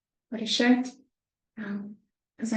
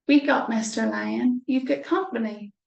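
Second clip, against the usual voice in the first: mouse calling out; 4 dB louder than usual. Acted. Mouse calls to sleeping lion.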